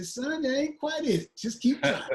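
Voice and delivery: high-pitched mock parental advice, breaking into laughter; laughing imitation of parents. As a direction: imitate a parent's verdict, laughing harder as it goes.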